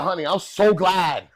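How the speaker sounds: loud, high, stretched-out relief; heartfelt comic punchline; relieved mother. Retold or imitated. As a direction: imitate a mother's emphatic relief.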